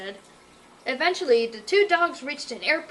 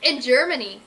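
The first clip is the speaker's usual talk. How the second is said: proudly; 6 dB louder than usual. Acted. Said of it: "Night Pumper said proudly".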